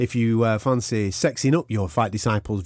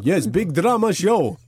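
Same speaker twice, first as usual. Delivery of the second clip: mock GSP voice; 4 semitones higher, slower than usual.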